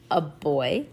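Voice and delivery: put-on puzzled, with a rising finish on "boy"; questioning. A narrator's reading. Mom doubting the girls' tale of a boy, questioning. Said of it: "she questioned".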